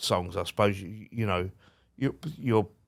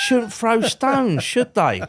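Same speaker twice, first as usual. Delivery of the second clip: high, loud, drawn-out punchline; crowing comeback; 11 semitones higher, 5 dB louder, slower than usual. Retold or imitated. Teasing Bob about glass houses, loud triumphant retort. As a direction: ram the retort home, voice pitched up.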